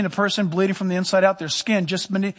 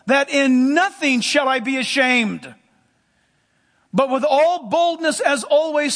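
emphatic, slightly raised preaching delivery; scripture reading; 4 semitones higher than usual. Acted. Preacher quoting Philippians to his congregation, emphatic scripture reading. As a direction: proclaim the verse with measured emphasis.

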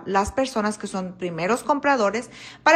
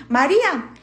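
higher call right into her ear; mock shout; 4 semitones higher, 4 dB louder than usual. Husband calling close by his wife's ear, mock shout. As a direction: shout the name with a falling end. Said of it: "arrímatele ahí cerquitas al oído y grítale".

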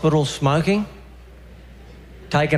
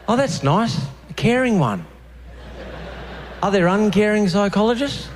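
sarcastic; 6 semitones higher than usual. Real, not acted. Sarcastic reaction to the sign.

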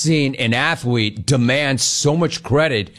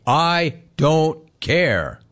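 quoting the player; much slower than usual. Retold or imitated. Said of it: "He said it".

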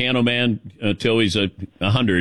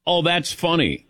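polite nonlaugh; 3 semitones higher than usual. Retold or imitated. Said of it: "I hate when somebody goes".

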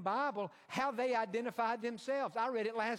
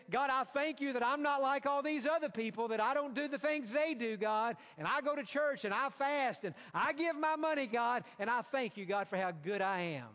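mock smug prayer, higher and pushed; high and mighty; 4 semitones higher than usual. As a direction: parody a self-satisfied Pharisee praying. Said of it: "The other part is high and mighty".

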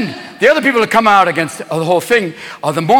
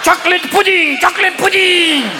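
put-on demented old pope; 9 semitones higher than usual. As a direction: proclaim it gleefully on one high note. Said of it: "dementia in Yankee Stadium going".

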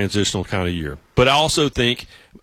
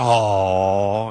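imitated crowd aw; 3 semitones lower than usual. Retold crowd reaction.

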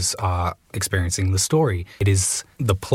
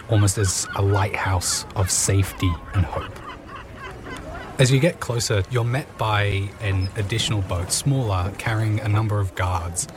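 calm storytelling scene-setting voice; game master narration. Acted. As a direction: set the scene for the players.

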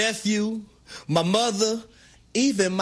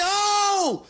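retold shout; 11 semitones higher than usual. Laughing at TV, retold yell.

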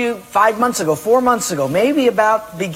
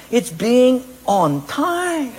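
laughing punchline; 5 semitones higher, much slower than usual. Retold or imitated. Punchline of the joke.

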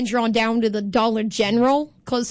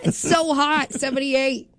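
whiny mock suffering; sarcastic. Host pretending to suffer in mild weather, sarcastic. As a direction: moan as if the mild heat were unbearable. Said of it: "That's sarcasm for people who don't know".

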